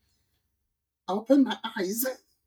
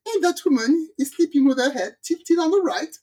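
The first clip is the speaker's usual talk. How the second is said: incredulous; 8 semitones higher than usual. Retold or imitated. Excited telling of absurd scene.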